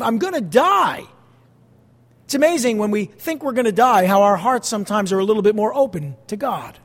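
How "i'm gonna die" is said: Jonah's panicked cry. Retold or imitated. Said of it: "So he says".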